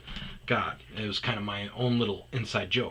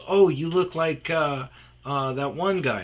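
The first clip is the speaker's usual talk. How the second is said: higher, louder voice for the woman; raised-pitch mimicry of an excited stranger; excited woman retold; 6 semitones higher, 6 dB louder than usual. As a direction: imitate her trying to place a face.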